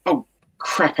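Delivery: high-pitched mock dismay; sudden realisation. YouTuber realises he forgot to mention a step, mock dismay.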